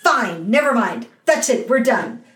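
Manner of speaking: high, fed-up acted outburst; losing it. Leading player shutting the show down, losing it. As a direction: imitate someone angrily calling it all off. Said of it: "the leading player loses his shit".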